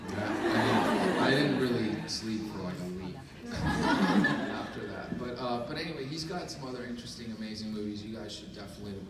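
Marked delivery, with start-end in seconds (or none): 0.1-5.2 laughing. Real, not acted. Laughing about sleepless week.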